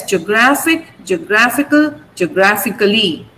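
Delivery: geographic, geographical, geographically, all stressed on GRA. Shown as a demonstration. Teacher compares geographic forms, same stress on GRA. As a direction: keep the weight on GRA as endings grow. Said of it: "the stress remains on gr".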